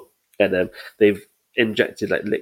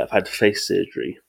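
thick-tongued speech; swollen tongue. Real, not acted. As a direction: talk around a swollen tongue. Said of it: "So I sound a bit fucking fat tongue".

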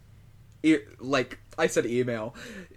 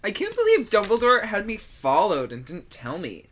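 indignant, raised pitch and volume; mock angry Harry; 5 semitones higher, 5 dB louder than usual. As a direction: imitate an outraged teenager complaining. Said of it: "Harry is instead angry because he's like".

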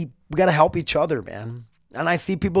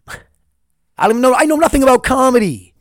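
laughing at himself; 9 semitones higher, 9 dB louder than usual. Real, not acted. Laughs at his own dream.

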